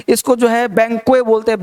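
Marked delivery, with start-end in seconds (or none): 0.7-1.2 BANQUET said as बैंक्वे, final T dropped; common mispronunciation. Shown as a demonstration. Teacher quotes how people misread the word, mispronounced without T. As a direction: say बैंक्वे with a silent T. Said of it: "बैंक्वेट नहीं बोलते".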